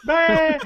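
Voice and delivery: high mock horn honk; imitated air horn blast. Customer pranking drive-thru worker, imitated air horn blast. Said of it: "you pull out the air horn".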